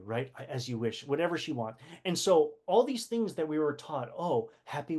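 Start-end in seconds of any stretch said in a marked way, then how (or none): 0.5-1.1 quiet, lower loving reply; tender devotion. Retold or imitated. Wesley's code word for love, said softly. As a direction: murmur it like a hidden I love you. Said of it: "his code word for I love you".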